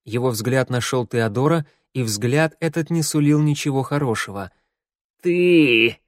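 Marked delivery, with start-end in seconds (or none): 5.2-6.0 loud, higher accusing snarl; growling. A narrator's reading. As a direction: spit it out with hatred. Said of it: "прорычал Ворона".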